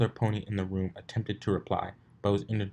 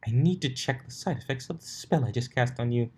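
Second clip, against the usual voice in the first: high, sly posh voice; scheming lady; 5 semitones higher than usual. Acted. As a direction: feign concern slyly. Rarity scheming.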